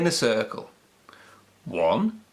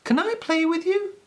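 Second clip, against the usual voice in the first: tag. A narrator's reading. Peppy asks the puppies.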